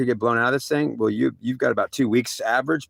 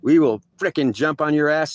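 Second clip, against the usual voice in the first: stern threat; 2 semitones higher, slower than usual. Retold or imitated. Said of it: "they're saying".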